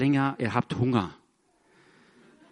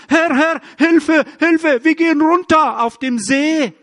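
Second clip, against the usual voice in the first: much higher and louder, frantic calling out; panicked cry for help; 10 semitones higher, 7 dB louder than usual. Retold or imitated. Disciples crying to the Lord on the lake, frantic loud panic. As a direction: shout for help as the boat sinks. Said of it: "schreist du".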